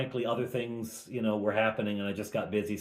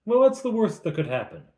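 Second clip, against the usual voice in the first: Fleetwood repeating; 11 semitones higher, 6 dB louder, faster than usual. Retold or imitated. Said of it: "Fleetwood asks".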